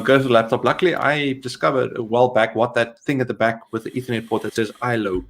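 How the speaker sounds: ordinary talk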